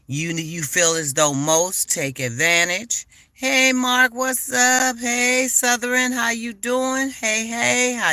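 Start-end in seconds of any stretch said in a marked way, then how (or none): 3.3-8.1 high, bright shout-outs to chat; upbeat welcome to friends joining the stream; excited greetings. Real, not acted. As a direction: greet each viewer by name, lifted and cheerful. Greeting viewers in live chat.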